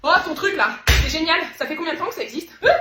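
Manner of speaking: loud, high, thrilled gush; over-the-top delight. Acted. Woman thrilled by her friend's oil, loud excited gush. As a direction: gush like it changed your life.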